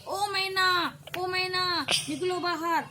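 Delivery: landlady calling the household out, loud and bossy. Acted. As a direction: shout from outside the door. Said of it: "ऐसे बोलने लगी".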